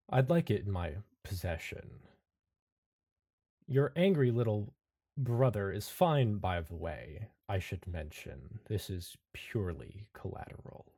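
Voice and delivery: lightly voiced menacing figure, measured; composed sinister stranger. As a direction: toy with them politely.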